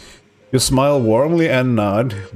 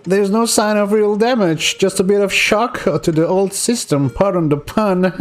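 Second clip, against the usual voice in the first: much higher, prim doctor voice; 9 semitones higher than usual. Acted. Doctor reassuring the patient, in a high prim voice. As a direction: play the doctor, up in the head. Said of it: "Oh, she's talking, right?".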